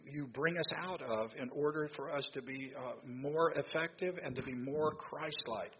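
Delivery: earnest public prayer, pitch lifting as it goes; spoken prayer. Real, not acted. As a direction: pray aloud for the group, building toward the plea.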